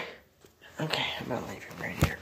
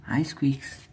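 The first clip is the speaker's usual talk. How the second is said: whispering; 5 dB louder, much slower than usual. Real, not acted. Coaxing shy pet quietly.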